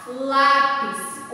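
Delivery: Lápis sung out with lá loud; stress on LÁ. Shown as a demonstration. Teacher modelling the word for the class, lá stressed. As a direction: chant Lápis leaning on lá. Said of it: "é o lá".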